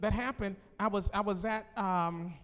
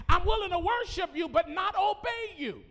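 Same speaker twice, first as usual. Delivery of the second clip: mock rebellious angel, raised voice; defiant Lucifer; 6 semitones higher than usual. Preacher voicing Lucifer refusing to obey, defiant. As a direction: play Lucifer defying God.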